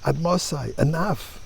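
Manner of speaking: mild acted outcry in prayer; pleading cry to God. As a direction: beg for it to stop, voice lifted. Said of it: "a moment to scream to God".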